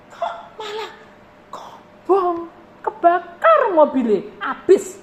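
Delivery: high, loud laughing exclamation; preacher laughing about his burned car; laughing in disbelief. Real, not acted. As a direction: laugh at the irony of it.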